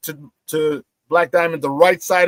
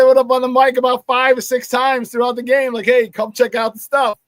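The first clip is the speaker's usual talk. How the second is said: retold incredulous protest; 8 semitones higher, 3 dB louder than usual. Retold exasperation continues.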